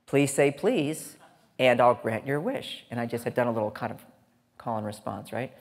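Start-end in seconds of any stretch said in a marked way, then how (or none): 0.1-2.8 gentle reply. Retold or imitated. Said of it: "in my mind I say".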